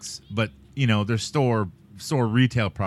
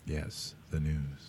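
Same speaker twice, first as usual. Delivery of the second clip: troll voice; 9 semitones lower, 15 dB quieter, much slower than usual. Shown as a demonstration. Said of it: "let's talk like a troll".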